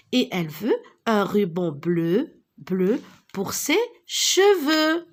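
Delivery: put-on rhythmic sing-song rhyme for children; sing-song reading. Shown as a demonstration. Teacher reading a rhyme to young pupils, sing-song. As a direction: chant the little rhyme to the class.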